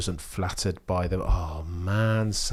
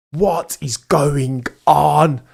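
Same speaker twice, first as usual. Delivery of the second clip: dismayed cry; 7 semitones higher, 9 dB louder, much slower than usual. Real, not acted. Piastri crash reaction.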